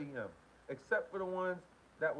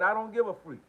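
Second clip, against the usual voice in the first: reading the comment again, louder; louder reread; 4 semitones higher, 7 dB louder, faster than usual. Retold or imitated. Rereading Ray's comment aloud, louder and delighted. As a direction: punch the quote out louder in delight. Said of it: "He said".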